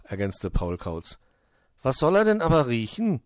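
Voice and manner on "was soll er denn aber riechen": high, loud eager question; curious. A narrator's reading. Hoppel wonders what the snowman smells, curious. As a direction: pipe up inquisitively. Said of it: "fragte Hoppel neugierig".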